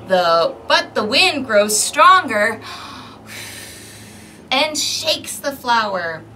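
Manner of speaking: put-on lively read-aloud for small children; storybook narration. A narrator's reading. Librarian reading a picture book to kids, lively narration. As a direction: read the story to the little ones.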